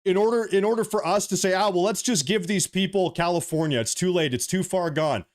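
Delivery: heated, emphatic political rant. Real, not acted. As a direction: make an impassioned plea to take action. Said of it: "I'm getting a little bit heated".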